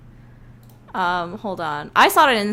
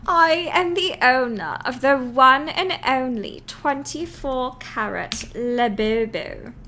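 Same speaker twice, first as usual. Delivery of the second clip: meme voice; 4 semitones higher, 4 dB louder, slower than usual. Retold or imitated. Mimicking viral meme line.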